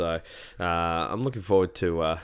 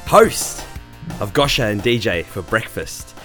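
ringmaster. Acted. Podcast host's showy opening intro.

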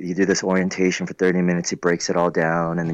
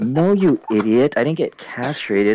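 exasperated retort; 5 semitones higher than usual. Retold or imitated. Retelling how he scolded his friend, exasperated. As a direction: set the idiot friend straight, a bit heated. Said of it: "I go".

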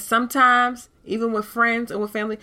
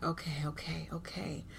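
relieved okays; 3 semitones lower, 15 dB quieter than usual. Retold or imitated. Relief after readings go well.

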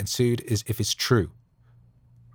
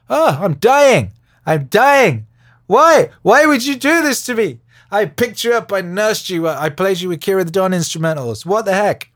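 put-on dying old lady; 10 semitones higher, 9 dB louder than usual. Dying old lady bitten by snake.

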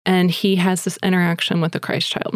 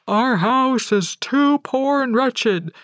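higher, slow, timid voice of a poor father; a poor father turning a visitor away, higher and slow; humble poor father; 5 semitones higher, slower than usual. Retold or imitated. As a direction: shrink back, ashamed of your house. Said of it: "And the dad replies".

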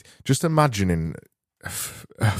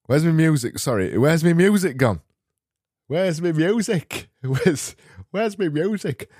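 higher-pitched hammed-up Yorkshire accent; mock Yorkshire; 7 semitones higher than usual. Host asks for his music in exaggerated Yorkshire. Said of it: "what I've discovered is".

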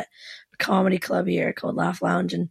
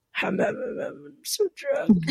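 slow, high tipsy humming; mock drunk; 7 semitones higher than usual. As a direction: play it giddy drunk on snacks. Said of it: "I was, like, eating Cheetos and I was like".

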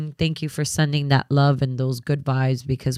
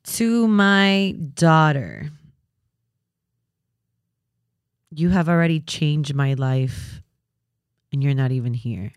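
tearful tenderness. Real, not acted. Mother-to-be to her unborn daughter, tearfully tender. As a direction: speak tenderly through welling tears, long pauses.

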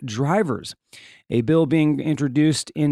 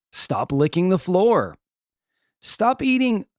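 mock telling-off of a dog, rising higher on the last command; mild exasperated scolding; 5 semitones higher than usual. Owner to dogs licking the floor, mild exasperated scolding. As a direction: play the fed-up dog owner.

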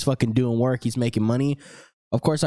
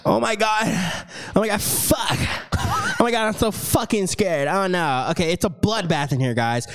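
higher, hammed-up scared gasping; mock panic; 6 semitones higher than usual. Host acts out a bloody shaving disaster for the ad, hammed-up higher panic. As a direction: ham up the terror over a bloody dagger.

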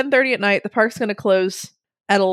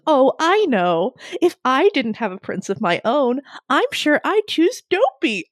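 coy princess; 5 semitones higher than usual. Retold or imitated. Snow White, retold.

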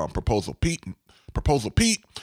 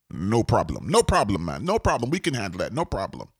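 put-on lilting brush-off in a light Jamaican accent; 3 semitones lower than usual. Contractor answering a client's question about storing equipment, light Jamaican accent. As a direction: imitate easy assurance with a mild Jamaican accent. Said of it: "I put this Jamaican accent".

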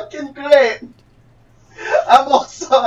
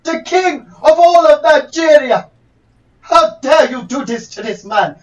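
hammy fake Nigerian accent; a put-on Nigerian lawyer voice; 3 semitones higher than usual. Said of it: "this is not a Nigerian accent".

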